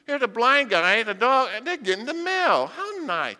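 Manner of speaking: lightly voiced cooing neighbor; a hint of a gushing neighbor, talking down; mocking the neighbor's sugary pity. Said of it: "the brand new neighbor moving in and said".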